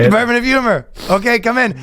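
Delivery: high goofy announcing; mock wacky official. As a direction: play the silly department head. Voicing both sides of knock joke.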